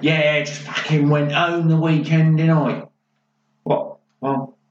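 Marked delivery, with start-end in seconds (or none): 0.0-2.8 mock East End London accent; imitating a Cockney-sounding girl. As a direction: put on a broad London voice. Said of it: "Should make East End people not sound London".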